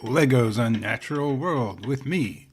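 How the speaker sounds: lightly voiced mock wildlife presenter; nature documentary host. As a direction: present it like a hushed TV naturalist, tongue in cheek.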